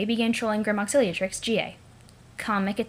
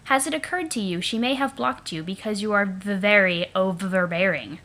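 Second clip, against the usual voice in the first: put-on silly Eridan accent. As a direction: drag out very overbearing in a mocking Eridan accent. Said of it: "said that aloud now in your silly accent".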